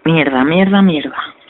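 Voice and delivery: loud frustrated swearing; frustrated cursing. Real, not acted. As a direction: curse at the game, loudly. Loses in game, swears.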